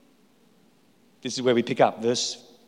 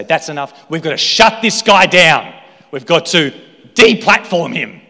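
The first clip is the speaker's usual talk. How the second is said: indignant Pharisees; 3 semitones higher, 9 dB louder than usual. Acted. Pharisees plotting against Jesus.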